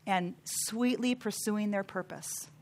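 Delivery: slow, softening, gentle delivery; calm and sweet. Shown as a demonstration. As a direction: ease it out unhurried and sweetly. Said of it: "They're just calmly".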